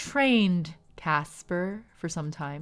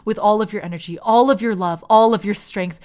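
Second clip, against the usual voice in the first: building narration; 3 semitones higher, 10 dB louder than usual. A narrator's reading.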